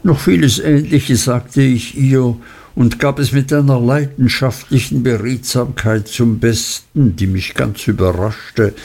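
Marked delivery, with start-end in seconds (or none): none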